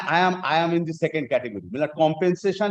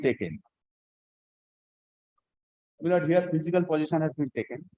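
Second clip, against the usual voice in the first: formal legal reading. Shown as a demonstration. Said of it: "Kindly, I am reading once more".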